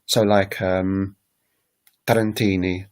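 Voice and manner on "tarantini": "Tarantini" stressed on the second-last syllable; stress near the end. Shown as a demonstration. Teacher showing Italian word stress, "Tarantini" stressed on "ti". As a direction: lean on the "ti" in "Tarantini". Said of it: "the third or the second syllable from the end".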